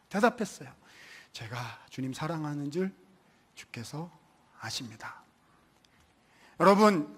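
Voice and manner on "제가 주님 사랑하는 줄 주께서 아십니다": humble soft answer. Retold or imitated.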